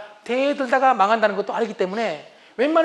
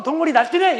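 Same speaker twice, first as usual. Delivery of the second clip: mocking out loud; 5 semitones higher, 4 dB louder than usual. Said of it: "이러면서 겉으로".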